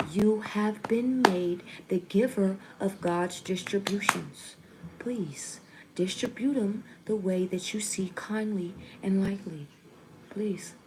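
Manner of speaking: solemn, measured channeled plea; hushed, deliberate plea from a spirit message. Real, not acted. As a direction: deliver it formally, softening to near a whisper. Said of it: "I definitely do not speak like that".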